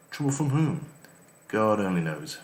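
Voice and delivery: a hint of Cornish while reading aloud; slightly Cornish accent. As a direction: let a light Cornish accent slip in. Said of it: "I went slightly Cornish there".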